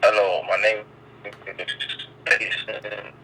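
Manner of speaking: bad phone line cutting out; breaking up. Real, not acted. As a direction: voice dropping out on a call. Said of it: "You, you breaking up a little bit for me".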